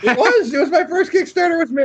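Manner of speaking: high voice. Pretend. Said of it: "mock pitch for Myth".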